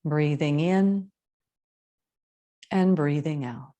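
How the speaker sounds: measured yoga teacher voice, long pauses; spacious, evenly paced breathing guidance; guided meditation. Acted. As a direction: guide them into the breath, unhurried.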